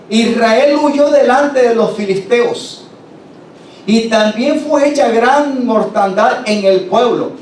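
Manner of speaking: despacio y algo más agudo, anunciando la derrota; mensajero con malas noticias. Acted. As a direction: lee la noticia grave, lenta y alzada. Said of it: "el mensajero respondió diciendo". (el mensajero le anuncia la derrota a Elí, lento y agudo)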